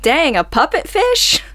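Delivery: mock-astonished greedy fisherman; amazed fisherman. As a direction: gape at a rare catch, then relish it.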